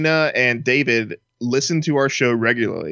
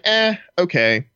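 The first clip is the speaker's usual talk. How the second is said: slow, drawn-out underwhelmed shrug of a voice; underwhelmed reaction; 6 semitones higher, slower than usual. Pretend. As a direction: react to a let-down reveal, slowly. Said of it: "you'd be like".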